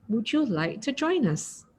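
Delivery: soft, kind invitation; speaking gently. Shown as a demonstration. Teacher demonstrating a gentle invitation to students, softly. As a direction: ask quietly and kindly. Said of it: "So speak gently".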